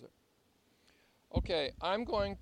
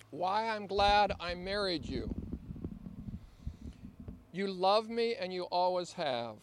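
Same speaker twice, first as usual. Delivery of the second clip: reading a love letter; 3 dB louder than usual. Shown as a demonstration. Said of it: "as I read this love letter".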